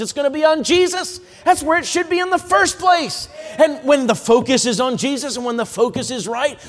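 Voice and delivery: high, ringing preacher's shout; fervent pulpit climax; preaching at full force. Real, not acted. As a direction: lift the congregation with a rising cry.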